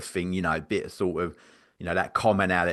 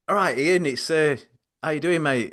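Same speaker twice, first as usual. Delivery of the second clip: higher-pitched put-on greeting; chatty phone greeting, pitched up; other voice; 7 semitones higher than usual. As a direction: switch into the other character's lifted voice. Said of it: "me other voice".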